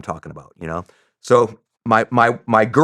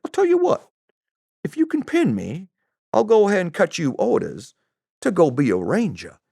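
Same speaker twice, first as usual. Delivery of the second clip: Southern clerk; 6 semitones higher than usual. Retold or imitated.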